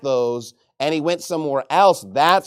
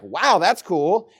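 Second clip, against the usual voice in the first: slow, drawn-out acted wonder; impressed; much slower than usual. Jamaican local answering a visitor from Texas, impressed. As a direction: stretch out the wow, mildly impressed. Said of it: "they're actually more interested".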